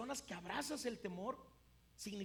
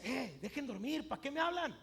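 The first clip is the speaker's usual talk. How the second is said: mock annoyance at being woken; imagined irritated complaint; annoyed sleeper; 3 semitones higher, 5 dB louder than usual. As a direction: grumble loudly at whoever woke you, pitch rising. Acts out annoyed sleeper Jesus is not.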